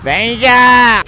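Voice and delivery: sudden shout of a name; calling out. Real, not acted. Gamer shouting a companion's name. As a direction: yell the name across the field.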